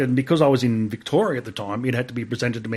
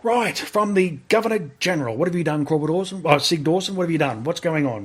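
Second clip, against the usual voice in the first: higher, demanding officer's voice; booming sergeant major; 4 semitones higher than usual. Retold or imitated. RSM reading the Governor General's letter, demanding. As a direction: grill the soldier like a stern RSM. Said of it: "He, he just had a big voice".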